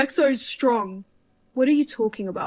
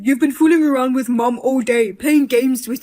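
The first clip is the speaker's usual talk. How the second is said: exasperated scolding; 4 dB louder than usual. Acted. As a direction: scold her for toying with you. Son scolding mother for pranks.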